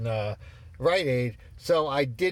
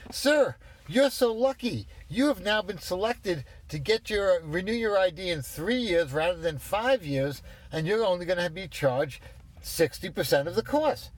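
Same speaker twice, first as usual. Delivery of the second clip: mock clerk pitch; 5 semitones higher than usual. Mocks DMV clerk's sales pitch.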